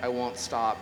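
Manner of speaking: lyrics recited, not sung; spoken-word reading of a rock song. Acted. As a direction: read the verses line by line, punching each opening cry. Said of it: "read these lyrics".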